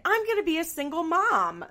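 put-on weird baby voice. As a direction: put on a sing-song teen baby voice. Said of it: "her weird baby voice that she does".

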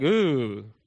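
low, drawn-out "ooh"; mock recoiling "ooh". Preacher jokes Jesus recoils from leper, low mock groan.

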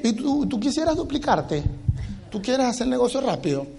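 softly hesitant, feigned nervous request; tentative, hammed-up shyness with a stutter start; mock timid asking. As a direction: ask haltingly, as if scared to bring it up. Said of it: "nos da un miedo decirle".

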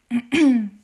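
clearing a frog in the throat; loud throat clear. Real, not acted. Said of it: "hab irgendwas im Hals".

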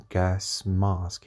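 gas mask with mask said as mahsk, long open ah; British gas mask. Shown as a demonstration. Podcaster repeating the British vowel for listeners. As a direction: hit mask with a broad British ah. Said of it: "it's a bit closer to the British".

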